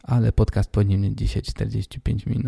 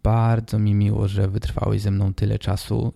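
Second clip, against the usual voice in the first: stuffy nose. Real, not acted. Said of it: "mam dzisiaj nie dość, że chrypę, to jeszcze totalnie nie mogę oddychać nosem".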